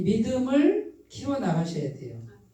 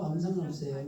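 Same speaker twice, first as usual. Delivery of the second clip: softer, calmer 아무 상관없어요 with 상관없어요 stressed; quiet repeat; 3 semitones lower, 6 dB quieter, faster than usual. Shown as a demonstration. Preacher quietly repeating the reassurance to the congregation. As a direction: drop to a softer, settled tone. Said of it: "repeats it quietly".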